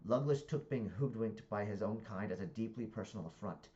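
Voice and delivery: deliberate, projected book reading; story narration. A narrator's reading. Reader narrating a comic novel to listeners, animated narration.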